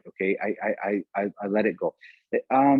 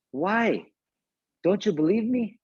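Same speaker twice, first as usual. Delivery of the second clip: put-on old man's offended question, pitched much higher; mock-offended old man; 7 semitones higher, slower than usual. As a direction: play the old driver, hurt that he's doubted, voice up high. Old driver indignantly questioned by officer.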